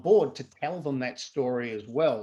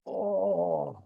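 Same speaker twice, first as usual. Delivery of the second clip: amazed exclamation; 5 semitones higher, much slower than usual. Retold or imitated. Laughter coach retelling amazement at still students, slow and laughing. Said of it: "And I go".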